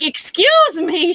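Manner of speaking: high, slow, snippy excuse me; mock rude lady, high and drawn out. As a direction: say it like she's put out by you. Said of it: "she was real rude".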